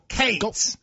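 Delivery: "Cates" as one short syllable with a long ay. Shown as a demonstration. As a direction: clip it, "Cates", single syllable. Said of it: "It's like one syllable".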